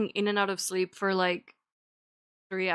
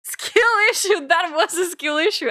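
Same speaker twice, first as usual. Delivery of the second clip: mock taunt; 7 semitones higher, 6 dB louder than usual. Real, not acted. Mocking herself loudly.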